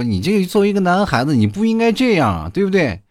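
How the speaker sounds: scolding teacher. Retold or imitated. Teacher scolds the boy for bullying a girl, high mock scolding. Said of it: "边骂我边说".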